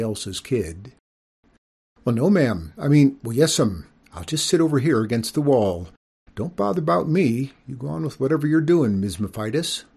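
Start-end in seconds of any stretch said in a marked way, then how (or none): 2.0-9.8 put-on polite child. Nervous boy answers skunk.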